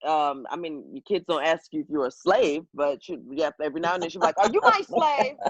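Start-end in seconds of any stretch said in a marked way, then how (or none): 4.4-5.4 a lightly voiced confused old lady, pitched higher; elderly lady's question. Caregiver imitating her elderly client's odd question, lightly voiced. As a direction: mimic the old woman asking innocently.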